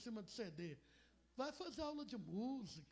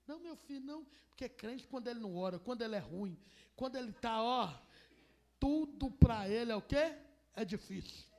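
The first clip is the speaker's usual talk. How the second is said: loud building; 7 dB louder than usual. Acted. Saul answers, preacher builds loud.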